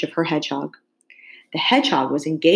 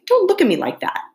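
nervous king; 11 semitones higher than usual. A narrator's reading.

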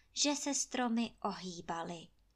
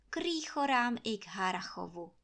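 ordinary delivery

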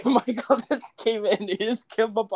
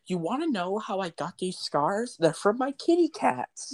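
Joker voice. Pretend. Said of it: "sounds like the Joker again".

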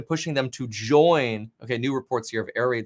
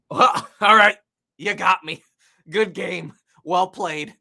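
laughing mock surrender; 4 semitones higher, 5 dB louder than usual. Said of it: "Most people would just be like".

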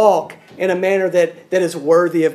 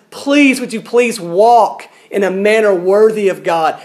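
insistent. Acted. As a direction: urge them lovingly but firmly. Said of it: "insists and says".

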